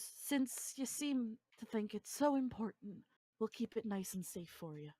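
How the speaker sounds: condescending guard. Acted. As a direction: feign helpfulness to a prisoner. Guard taunts prisoner over scarf.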